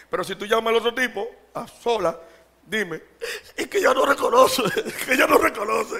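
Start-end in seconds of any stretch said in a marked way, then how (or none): 3.5-5.9 mock whining spouse.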